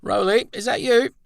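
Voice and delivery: a friend calling out in the night; cheery friend calling. Acted.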